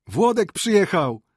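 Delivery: loud, high call from outside; shouted announcement. Acted. Someone outside shouting that Włodek arrived, loud high call. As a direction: call out the news at full voice. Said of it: "krzyknął ktoś na dworze".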